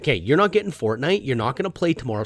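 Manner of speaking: loud mock parental threat; acted-out stern dad warning; threatening. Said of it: "I start threatening him instantly".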